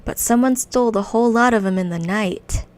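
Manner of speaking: lightly voiced goblin quest giver, chatty; a hint of a sly goblin merchant. Reads the quest giver's lines.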